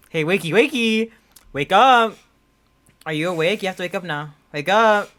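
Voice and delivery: calling out to rouse a sleeper, building; coaxing, then insistent wake-up call; retold wake-up calls. Girlfriend trying to wake sleeping boyfriend, retold calling out. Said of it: "I yelled his name".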